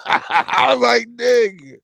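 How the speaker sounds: cracking up while talking; dying laughing. Retold or imitated. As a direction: push the words out through loud laughter. Retelling his dying laughing at vendor.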